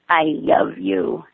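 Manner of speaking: slow, lisped "I love you". A narrator's reading. Child lisping into mother's neck. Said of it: "she lisps".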